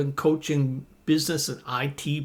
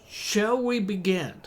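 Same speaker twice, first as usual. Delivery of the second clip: polite formal; 6 semitones higher than usual. Shown as a demonstration. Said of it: "Which is more polite?".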